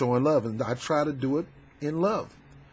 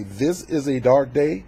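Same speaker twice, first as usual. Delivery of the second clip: mocking quote; slower than usual. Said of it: "you got the nerve to say".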